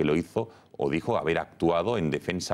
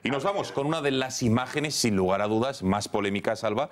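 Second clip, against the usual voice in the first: higher-pitched anchor lead-in to the closing story; news teaser; 5 semitones higher than usual. Acted. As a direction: tease the last story to viewers.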